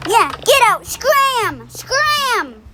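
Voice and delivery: high shouted scram; shooing yell. Acted. Chasing anomaly away in game.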